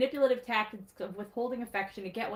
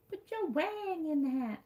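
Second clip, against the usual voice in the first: deadpan pun; 6 semitones higher than usual. Real, not acted. Pun tagline said slowly.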